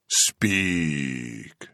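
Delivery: soft, hushed urging; softly. A narrator's reading. Kazala quietly urges the trembling boy to speak. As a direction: coax it out quietly. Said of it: "Kazala said softly".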